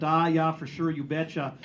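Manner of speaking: light, self-mocking Minnesota accent. Shown as a demonstration. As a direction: lean briefly into a folksy Minnesota accent. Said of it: "almost Minnesota accent".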